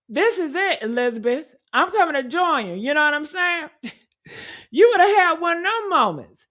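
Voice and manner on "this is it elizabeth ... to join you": melodramatic farewell. Retold or imitated. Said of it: "He really said that like he's auditioning".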